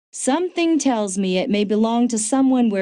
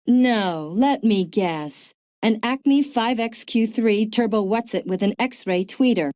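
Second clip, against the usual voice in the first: sarcastic. Acted. Partner pretends to guess at Hawkins's gadget, sarcastic. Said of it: "a note of sarcasm in your voice".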